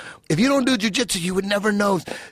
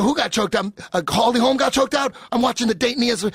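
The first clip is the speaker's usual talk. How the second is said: confused; 6 semitones higher, faster than usual. Retold or imitated. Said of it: "I go".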